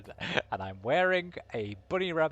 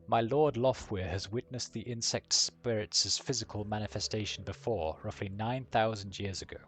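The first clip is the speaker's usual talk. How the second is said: put-on German accent. Dragon's envoy briefs the council, in a German accent. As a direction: relish each vowel in a German accent. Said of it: "with a deep, melodious German accent".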